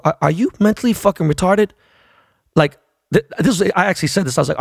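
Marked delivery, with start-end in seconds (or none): 0.0-1.7 high incredulous question; retold disbelief. Fan answering an angry player, incredulous. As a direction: pitch it up in mock disbelief.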